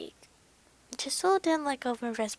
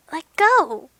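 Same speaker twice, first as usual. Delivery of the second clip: loud, higher-pitched outcry; crying out; 4 semitones higher, 11 dB louder than usual. A narrator's reading. Narrator begs Jisoo to release the wrist, crying out. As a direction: cry out to be released. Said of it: "I cried".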